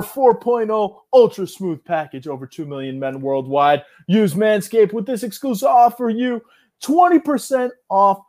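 slightly hammed-up official ad read; sponsor ad read. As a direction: read the sponsor copy like a host read.

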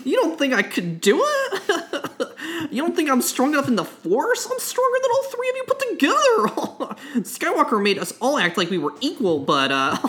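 villain laugh. Acted. Ben Solo gloating with laughter.

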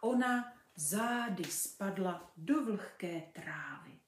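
put-on lively storybook reading for children; story narration. A narrator's reading. Mother reading a fairy tale to kids, lively. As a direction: read it like a bedtime fairy tale.

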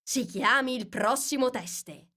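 lightly voiced king calling out; king's call. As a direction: call the witness with relief. King calls again.

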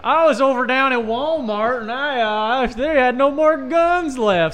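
mock redneck Southern voice; hick Southern accent. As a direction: play a dumb country hick. Mock Southern redneck voice after twang talk.

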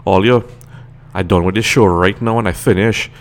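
thick Trini accent turned all the way on; casual, full-on Trini talk; full Trinidadian accent. Shown as a demonstration. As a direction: lay the Trinidadian accent on completely. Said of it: "I could completely turn it on".

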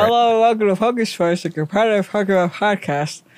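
happier with mouth wide open; cheerful open-mouthed host read. Shown as a demonstration. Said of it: "A little happier and with your mouth wide open".

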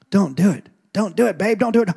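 hammed-up wife begging him to stop; mock pleading wife. Wife begging, voiced by husband.

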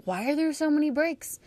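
exasperated listener. Retold or imitated. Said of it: "Now, you're thinking".

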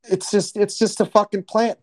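high mock godfather, indignant. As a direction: ham up the godfather. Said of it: "But Godfather".

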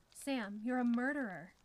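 loud, desperate protest; desperate accusation. A narrator's reading. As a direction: accuse him, pleading for your life. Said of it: "trying desperately to save herself".

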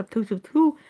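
quick mock spitting, three times; imitated ritual spitting. Showing viewers how the healers spat on her, imitated spitting.

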